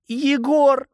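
high, loud anguished wail; wailing mother. A narrator's reading. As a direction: howl the boy's name like a desperate mother. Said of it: "взвыла бедная заплаканная мать".

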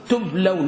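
"تبلون" as tub-law-na, diphthong "law"; model pronunciation. Shown as a demonstration. Teacher answers how to pronounce it, as a model. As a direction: pronounce "تبلون" joined, with a falling end. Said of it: "كيف تنطقها؟".

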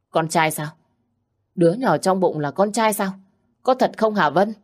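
can hardly believe the good news; excited disbelief. Acted. Wife hears the baby is a boy, thrilled.

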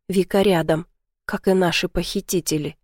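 ordinary delivery, nothing marked

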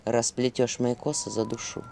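soft low whisper. A narrator's reading. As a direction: whisper it like a shadow. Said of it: "шептал голос тени".

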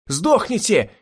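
high frantic yell; hysterical yelling. A narrator's reading. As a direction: scream it in hysterical rage. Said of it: "истерично орал он". (истеричный крик)

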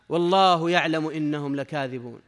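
slow, measured Quranic quotation; solemn drawn-out scripture reading; verse recitation. Real, not acted. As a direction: recite the verse slowly, drawing out the vowels.

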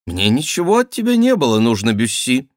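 high, loud ducal denial; offended duke, protesting. Acted. Duke denies to Bussy needing anything, high and emphatic.

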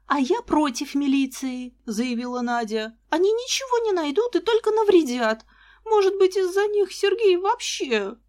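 voiced as a tearful young girl, rising to a high upset pitch; tearful, about to break down. A narrator's reading. Upset fiancée protests against the police through tears.

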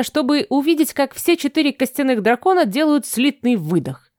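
ordinary delivery

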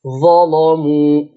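slow "ظلموا" with a dark, thick l; heavy lam. Shown as a demonstration. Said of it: "مفتوحة وقبلها مفتوح".

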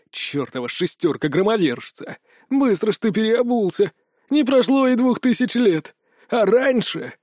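rising indignant jeers, pitch climbing; mock him for switching sides; taunting. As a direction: Loki jeering at Anubis, voice climbing. Loki taunting Anubis.

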